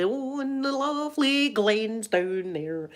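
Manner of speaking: slow, airy mock tourist; mock tourist gushing. Mocking tourists, slow dreamy gushing over the glens. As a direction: gush over the view like a daytripper. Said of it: "We're not really".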